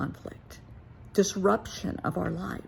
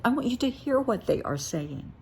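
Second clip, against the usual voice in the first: "to" and "they are" pressed higher; emphatic repeat; 5 semitones higher than usual. Shown as a demonstration. Stress on "they are" spelled out. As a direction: parent urging another parent, repeating it higher and emphatic.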